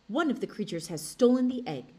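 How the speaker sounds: loud, urgent weasel voice. A narrator's reading. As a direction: weasel raising the alarm. Weasel announces the theft.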